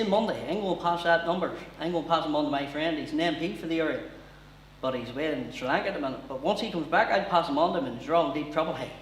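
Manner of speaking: Liam's Taken speech in broad Ballymena; Ballymena accent. Pretend. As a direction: hapless small-town threat, Ballymena accent. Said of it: "if he hadn't changed his voice".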